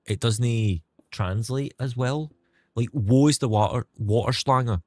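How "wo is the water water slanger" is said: Scottish German. Pretend. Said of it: "a sentence I can say in Scottish".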